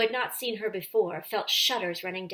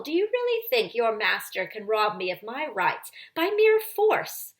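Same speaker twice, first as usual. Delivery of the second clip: louder sneering witch; scornful witch; 2 semitones higher, 4 dB louder than usual. Acted. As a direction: lecture them with contempt. Witch defies Aslan's followers.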